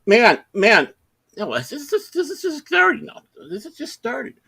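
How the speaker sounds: high-pitched imitation of a flustered man; pleading man. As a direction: plead like you've just been caught. Caught man pleading, acted.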